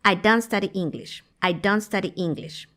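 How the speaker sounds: "don't" said as "don", no final T; silent T. Shown as a demonstration. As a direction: drop the T at the end of "don't". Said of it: "esa T que está después del apóstrofo no se pronuncia".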